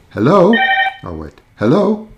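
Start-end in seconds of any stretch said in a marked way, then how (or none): 0.1-0.5 higher-pitched questioning phone hello; checking the line. Real, not acted. Host trying to connect a caller, questioning. 1.6-2.1 high, rising hello into the phone; checking the line. Real, not acted. Host waiting for a caller, questioning.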